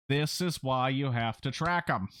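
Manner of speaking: slow, stretched-out words; pictured delivery. Acted. Repeating the dad's line as pictured, slow and drawn out. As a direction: say it slowly, spelling out the point. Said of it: "I pictured you saying it like that".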